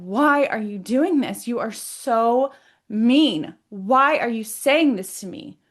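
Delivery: emphatic, drawn-out questions, rising in pitch; demanding answers. Retold or imitated. Confronting the mean energy in her body, demanding answers. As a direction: press hard for an answer. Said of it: "Demanding answers because".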